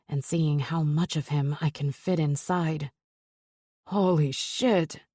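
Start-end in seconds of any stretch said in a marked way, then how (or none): 3.9-5.0 barked. Acted. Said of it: "he barks out".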